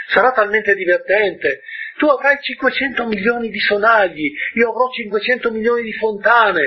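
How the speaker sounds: bright, high, eager voice reaching for joy; forced cheer. Acted. Prince cheering up the pilot, eagerly high. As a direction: sound excited to comfort your friend.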